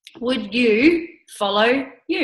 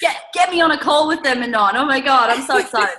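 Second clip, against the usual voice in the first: louder, fast excited burst; 3 semitones higher, 4 dB louder, faster than usual. Real, not acted. Coach eager to get on a call with the recruits, excited. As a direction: jump in with excitement.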